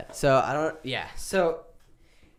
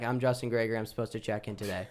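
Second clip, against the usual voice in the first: deadpan; 2 semitones lower, 5 dB quieter, faster than usual. Retold or imitated. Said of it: "Just like that".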